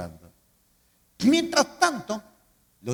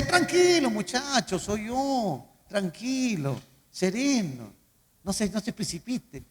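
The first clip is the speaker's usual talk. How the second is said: calming reassurance; 3 semitones higher, slower than usual. Retold or imitated. Jesus calming the frightened disciples, reassuring.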